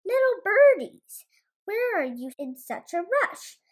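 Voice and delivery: high, sugary fox call; sly fox. Acted. Foxy Loxy calling to the birds, high and sly. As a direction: lure them in sweetly. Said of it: "cried Foxy Loxy".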